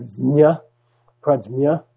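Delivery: prajna said with a dz-nya; Tibetan pronunciation. Shown as a demonstration. Teacher showing students the Tibetan way, prajna with dz-nya. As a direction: soften prajna into a dz-nya sound. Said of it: "people accuse the Tibetans of mispronouncing it".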